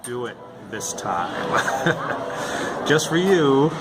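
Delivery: upbeat pitch man intro; radio host sign-on, lightly done. Pretend. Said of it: "the D J voice, your pitch man voice".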